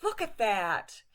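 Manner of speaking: wow, look at that; amazed exclamation. Retold or imitated. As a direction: point at something spectacular. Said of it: "you might say".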